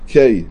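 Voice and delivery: קיי said "kay", with an ey glide; tzere vowel. Shown as a demonstration. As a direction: pronounce קיי to rhyme with "day". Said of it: "ציירי".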